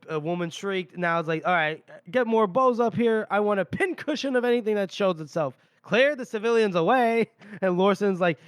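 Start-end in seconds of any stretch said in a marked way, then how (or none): 1.5-7.3 retold brisk orders. Retold commander giving orders.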